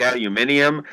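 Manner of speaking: "aluminium" said al-yoo-MIN-ee-um; Irish-family aluminium. Retold or imitated. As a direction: give "aluminium" the extra ee before the end. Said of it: "my mother's family's Irish".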